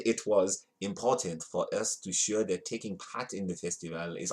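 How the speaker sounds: vague foreign accent, lightly put on; half-hearted accent of no clear country; unplaceable accent. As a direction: read the quote in a wandering made-up accent. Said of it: "I don't know what the accent is".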